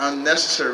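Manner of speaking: "unnecessary" leaned on with extra weight; stress on unnecessary. Real, not acted. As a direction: punch the word "unnecessary" inside a fast line. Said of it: "I stress the word unnecessary".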